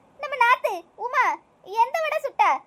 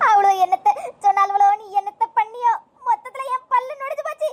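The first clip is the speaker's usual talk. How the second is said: put-on lamenting old mother; 6 semitones lower than usual. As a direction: mourn your broken tooth like an old woman. Mother laments lost tooth. (பல் போனதற்கு புலம்பும் வயதான அம்மா)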